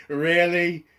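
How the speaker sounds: real laugh into the word Really?; laughing disbelief. Real, not acted. Laughing at the scene.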